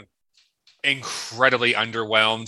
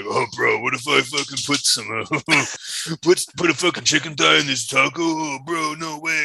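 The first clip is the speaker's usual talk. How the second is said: laid-back stoner bro voice; 3 semitones higher than usual. Retold or imitated. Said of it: "the stoners in there who were just like".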